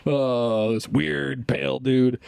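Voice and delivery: rally the neighbors, hammed up; patriotic dad. Dads rallying against foreigner.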